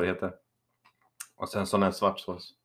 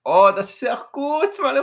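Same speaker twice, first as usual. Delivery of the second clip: relishing; 9 dB louder than usual. Real, not acted. Relishing the food.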